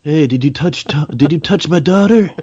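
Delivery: stern dad confronting his daughter's date; angry father. Acted. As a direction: demand it like a protective father.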